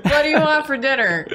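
mock whiny spouse. Mock bickering couple.

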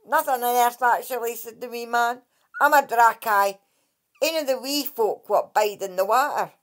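a lightly voiced, cocky sea sprite; the Dracai introducing himself to Kate; proud wee water fairy. Lightly voiced proud sprite.

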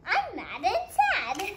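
mock mad and sad. Voicing upset character.

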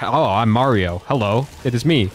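mock Chris Pratt. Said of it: "That's what he sounds like".

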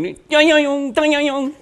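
loud, very high nasal mouth-guitar; imitated guitar trills. Bandmate mimicking the guitarist's riff, loud vocal imitation. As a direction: squeal out the guitar licks with your voice. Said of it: "He's going".

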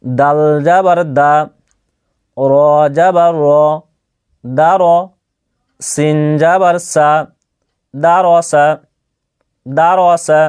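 measured Quran-primer spelling drill; teacher modelling letters for learners to copy; spelling-out demonstration. Shown as a demonstration. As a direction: spell letter and vowel, then join them evenly. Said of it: "দেখেন আমি পড়ছি, ভালোভাবে লক্ষ্য করবেন".

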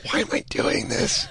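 whispered, barely voiced self-doubt; whispered regret. Watching the video alone, a guilty whisper. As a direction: breathe it out ashamed. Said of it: "you're like".

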